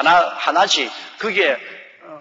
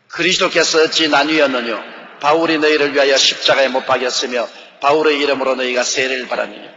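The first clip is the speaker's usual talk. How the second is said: scripture reading; 4 semitones lower than usual. Acted. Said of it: "십삼 절요".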